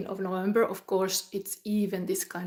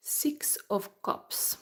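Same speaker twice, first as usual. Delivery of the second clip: whisper; much slower than usual. Real, not acted.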